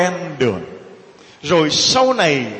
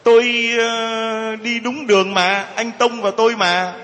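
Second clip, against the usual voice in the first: higher, dragged-out excuse; mock innocent protest; 5 semitones higher than usual. Drunk driver denying he caused a crash, mock innocent. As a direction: drag the opening word, plead your case.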